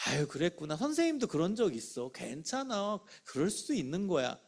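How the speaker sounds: soft, gentle reassurance; comforting. Shown as a demonstration. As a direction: tell a child who slipped up it's okay. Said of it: "자기 실수한 얘기예요". (실수한 아이를 부드럽게 안심시키듯)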